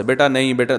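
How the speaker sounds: put-on soft, gentle scolding of a child; loving correction. Shown as a demonstration. Parent gently correcting a misbehaving child, tender. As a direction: correct the child kindly, with love. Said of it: "محبت سے".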